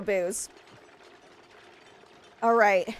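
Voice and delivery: normal talking voice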